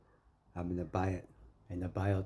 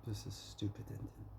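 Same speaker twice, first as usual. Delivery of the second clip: breathed voiceless, much softer; real whisper; 11 dB quieter than usual. Real, not acted. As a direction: let the hurt words fade into a whisper. Repeats the phrase, fading.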